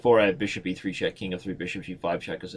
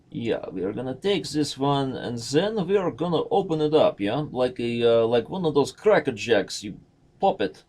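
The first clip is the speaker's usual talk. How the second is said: put-on Russian accent; 3 semitones higher, 3 dB louder than usual. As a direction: chat away in a mock Russian accent. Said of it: "That is my Russian accent".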